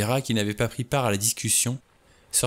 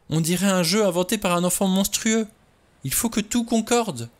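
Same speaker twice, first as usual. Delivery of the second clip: much higher, pressing on breathlessly; agitated outburst; 8 semitones higher, 3 dB louder than usual. A narrator's reading. Vera insisting to the men the murders are madness, much higher. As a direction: build the list of horrors urgently.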